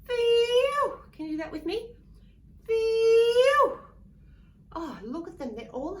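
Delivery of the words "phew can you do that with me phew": much higher, louder exaggerated relief; big relieved phew. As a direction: blow out hammed-up relief. Relief after snake leaves.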